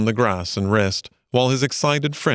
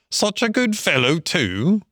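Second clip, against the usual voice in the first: musing aloud in a high otter voice; reflective; 8 semitones higher than usual. A narrator's reading. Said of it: "remarked the otter reflectively".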